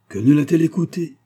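high, loud moan of regret; wailing lament.

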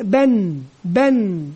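"بن" as one short syllable ending on a still n; quick pronunciation cue. Shown as a demonstration. Teacher showing baa plus silent noon, brief "بن". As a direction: say "بن" briefly, closing on n. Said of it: "كإشارة للنطق فقط سريعًا".

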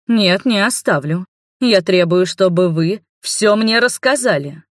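slow, firm and loud demand; stern refusal. Acted. Mother refusing to leave, slow and demanding. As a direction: refuse flatly and insist.

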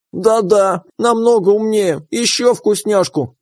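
high, slow greedy critter; demanding creature voice. Acted. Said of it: "потребовал он".

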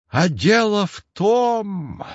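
slow, sighing cat voice. A narrator's reading. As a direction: let it out on a weary sigh. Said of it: "вздохнул кот". (со вздохом, медленно)

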